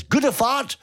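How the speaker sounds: a hint of the girlfriend saying "Gute Fahrt"; girlfriend's voice. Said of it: "she, at the end, says".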